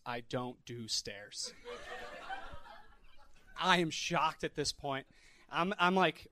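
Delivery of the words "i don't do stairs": blunt refusal. Retold or imitated. Guest's blunt refusal, dead eyes.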